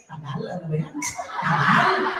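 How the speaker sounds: low comic grumble in Filipino; funny impatient grumbling. Acted. Filipino stuck in a long line, funny grumbling. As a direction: grumble under your breath, comically impatient. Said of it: "starts making funny noises".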